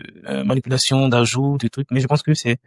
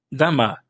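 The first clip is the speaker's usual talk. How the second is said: "Dama" stressed on the closing "ma"; final-syllable stress. Shown as a demonstration. Teacher repeats Russian plural for learners, final stress on "Dama". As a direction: lean on the end of "Dama", then let it fall. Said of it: "c'est vers la fin qu'on accentue".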